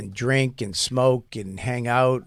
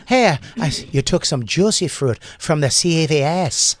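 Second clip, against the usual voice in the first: put-on Irish accent; 3 semitones higher, 4 dB louder than usual. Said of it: "I do it in an Irish accent".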